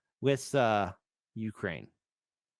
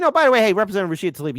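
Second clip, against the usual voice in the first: calling out; 4 semitones higher, 6 dB louder, faster than usual. Real, not acted. Calling out to congresswoman.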